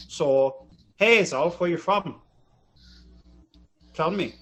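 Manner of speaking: lightly imitated Fargo accent. Shown as a demonstration. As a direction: talk like a Fargo local, Minnesota accent. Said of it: "they all talk like this".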